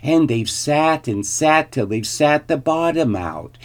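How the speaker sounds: high, shrill little bear; squeaky baby bear. A narrator's reading. Baby bear laments his broken chair, shrill and high. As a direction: pipe up with a tiny bear's grievance. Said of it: "squeaked the baby bear in his shrill little voice".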